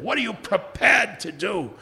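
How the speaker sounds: slow, drawn-out movie line; Sean Connery. Retold or imitated. Dying hero's challenge from his deathbed, lightly imitated. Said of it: "when he was dying on his deathbed".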